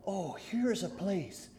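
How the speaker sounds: Christian pointing out a shelter to Hopeful; relieved Christian. Acted. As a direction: sound relieved to find shelter. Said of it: "And Christian said to Hopeful".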